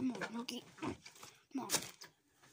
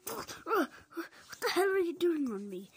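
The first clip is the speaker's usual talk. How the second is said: a higher, louder, drawn-out cry of alarm; startled yell; 5 semitones higher, 4 dB louder, slower than usual. Acted. Luigi yells on waking to find the cow on top of him. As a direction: shout it, jolted awake.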